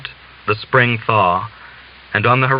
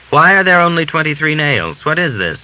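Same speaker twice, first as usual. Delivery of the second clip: sharp raised challenge; irritated demand; 6 semitones higher, 3 dB louder than usual. Acted. Officer demanding answers from the Cossack, irritated. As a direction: snap at the soldier over the nails. Officer scolds over missing nails.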